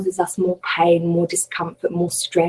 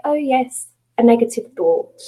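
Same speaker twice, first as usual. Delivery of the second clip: lightly amused, higher-pitched noting; smiling acknowledgement; 4 semitones higher than usual. Acted. Teacher voicing how she meets her own negative thought, smiling acknowledgement. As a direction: greet the thought with a smile in the voice. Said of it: "I smile at that thought".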